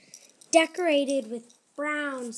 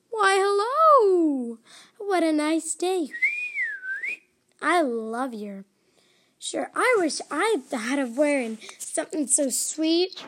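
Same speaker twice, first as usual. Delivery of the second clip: gushing welcome; 3 semitones higher, 5 dB louder than usual. Acted. Guests now flatter the baker.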